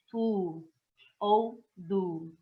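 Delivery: soft unaspirated "tu" then "du"; Korean t/d sound. Shown as a demonstration. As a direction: say "tu" and "du" as a lax Korean consonant. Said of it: "pra gente pronunciar".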